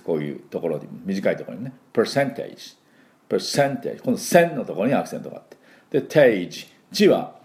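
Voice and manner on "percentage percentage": percentage with an r-colored per; American pronunciation. Shown as a demonstration. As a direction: percentage said as pr-sen-tage, r in the vowel. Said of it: "アメリカにはしっかり入れてきます".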